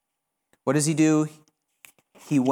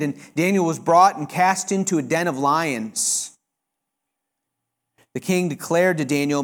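ordinary talk, nothing marked

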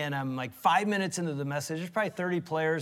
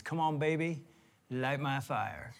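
low, slow, drawn-out song line; soft spoken lyric; 3 semitones lower, 6 dB quieter, slower than usual. Shown as a demonstration. Husband quotes a sixties song line, soft and low. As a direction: recite the lyric softly, slowing on the second half. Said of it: "I'll use another one from the sixties".

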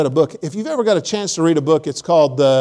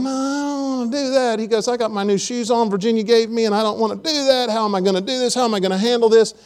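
higher, lightly whining voice of a fearful man; whiny Bobby; 6 semitones higher than usual. Acted. Bobby to Alan, refusing to ruin his new shoes, mildly whiny and higher. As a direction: fret like a cautious man who won't jump.

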